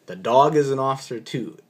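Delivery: a hint of officer insisting again; officer repeats. Officer repeating to the doctor, mild insistence. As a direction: restate it firmly. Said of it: "And he says".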